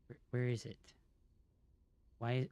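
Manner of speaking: ordinary delivery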